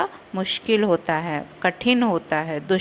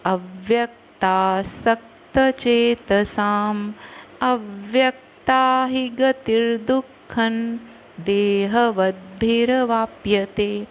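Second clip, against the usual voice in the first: slow verse recitation; slower than usual. Shown as a demonstration. Teacher reciting Gita verse to students, slow and measured. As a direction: recite the Sanskrit verse slowly and evenly.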